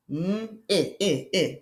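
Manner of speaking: "N" hummed as a letter sound, then "I" as short ih. Shown as a demonstration. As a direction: repeat "I" as a clipped ih, phonics style. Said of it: "That's a short I sound".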